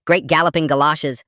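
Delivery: Great galloping galoshes! thrown out high and loud, a hammed-up old-timey oath; mock yelled oath. Kid yelling fake curses at the dinner table, loud mock oath. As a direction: shout Great galloping galoshes! like a stage exclamation. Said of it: "and yelled".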